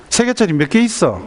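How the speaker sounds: high-pitched pressing mother; acted exasperated quizzing, pitch up; impatient repeated question.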